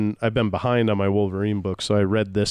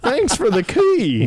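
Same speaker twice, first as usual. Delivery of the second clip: hammed-up Canadian accent, higher and slow; slow, silly Canadian accent; 14 semitones higher, 5 dB louder, slower than usual. Shown as a demonstration. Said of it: "maybe that's Patch's accent".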